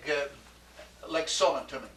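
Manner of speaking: ordinary talk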